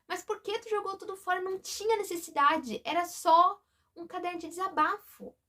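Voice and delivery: high, hurt plea to her mother, partly retold; a daughter's wounded, high-pitched protest to her mother; upset pleading. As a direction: ask why it was all thrown away, voice rising in hurt.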